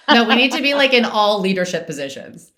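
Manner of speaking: laughing while speaking; words through a laugh. Real, not acted. Laughing reply in group chat.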